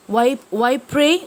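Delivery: haughty why pray. Shown as a demonstration. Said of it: "every time she says".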